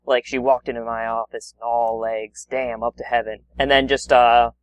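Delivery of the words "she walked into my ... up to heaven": low hard-boiled detective narration; noir detective. Pretend. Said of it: "a detective sort of noir narrative".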